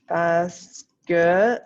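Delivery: each word drawn out slowly as she writes; slow dictation. Acted. Teacher dictating slowly to her class as she writes.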